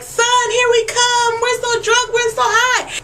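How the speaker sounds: high, slow, giddy chant; sing-song drunk and high, slow; hammed-up tipsy vampires. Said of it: "they're all like".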